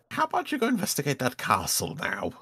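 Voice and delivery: high wizard voice, pointedly polite; hint heavily that they should leave. Acted. Wizard showing unhappy customer the door, pointed. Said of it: "he says rather pointedly".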